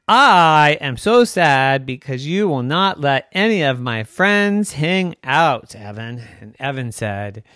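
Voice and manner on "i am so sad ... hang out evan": robotic voice. Acted. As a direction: speak like a sad little robot. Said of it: "in a very robotic voice".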